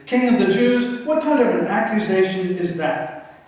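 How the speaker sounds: incredulous, pitch jumping up on King; scoffing Pilate. Acted. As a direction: scoff at the charge in disbelief.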